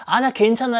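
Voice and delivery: high, upbeat mock shout; excited calling back. Sophia answering her friend from the boat, excited calling back. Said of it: "소리쳐서 막 신나게 답을 해줬어요".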